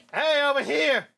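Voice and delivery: loud, high attention-getting shout; calling out. Acted. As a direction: call across the battlefield. Calling to distract fangirls.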